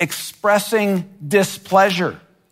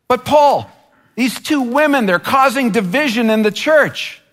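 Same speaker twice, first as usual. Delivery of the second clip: whiny complaint; 5 semitones higher than usual. Pretend. Church member complaining to Paul, higher and whining. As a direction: plead with Paul like an aggrieved believer. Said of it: "we could say, and Paul likely heard".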